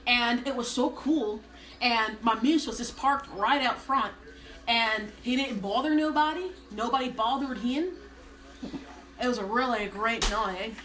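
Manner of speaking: lightly voiced Minnesotan single gal; hint of a Minnesota character voice. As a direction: tell it as a chatty Minnesota gal. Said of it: "a single gal from Minnesota".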